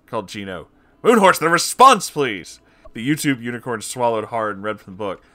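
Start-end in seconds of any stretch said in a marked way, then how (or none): 1.0-2.6 calling out. Acted. Calling to Moonhorse.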